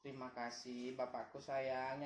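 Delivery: slow, sweet thank-you; saying it nicely. Shown as a demonstration. Father prompts his child to thank him, saying it nicely. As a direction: model an affectionate, unhurried thanks. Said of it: "yang bagus dong ngomongnya".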